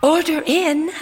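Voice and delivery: diner cook calling orders. Acted.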